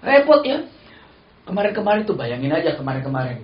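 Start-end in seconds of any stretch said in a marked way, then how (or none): 0.1-0.6 high laughing exclamation. Real, not acted. Preacher laughing at the household mishap, high. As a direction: laugh it off helplessly.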